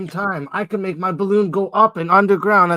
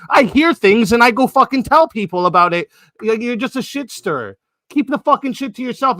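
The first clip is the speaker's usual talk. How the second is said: angry outburst; 4 semitones higher, 3 dB louder than usual. Real, not acted. Berating Angelica as shit stirrer.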